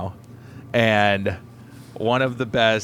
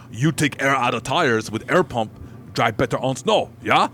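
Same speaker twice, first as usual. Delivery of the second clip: put-on Russian accent; 2 semitones higher than usual. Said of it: "I don't have a good Russian accent either, but I'll try".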